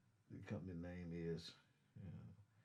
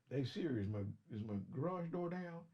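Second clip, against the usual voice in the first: raised higher call to the phone; calling Siri; 5 semitones higher, 4 dB louder than usual. Retold or imitated. Trucker asking his phone about the garage, raised call.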